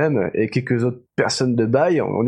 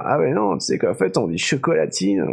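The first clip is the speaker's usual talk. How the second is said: know-it-all; 6 semitones higher than usual. Retold or imitated. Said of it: "les gens, ils vont te dire".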